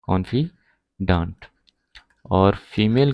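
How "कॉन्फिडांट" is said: "confi, daant" with a clear gap; slow syllable breakdown. Shown as a demonstration. Teacher gives learners the male form, slowly broken up. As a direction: split confidant slowly before its last syllable.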